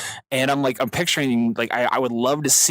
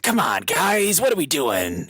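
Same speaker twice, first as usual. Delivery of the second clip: raspy Dave voice; 3 semitones higher, slower than usual. Retold or imitated. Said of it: "that weird, like, raspiness".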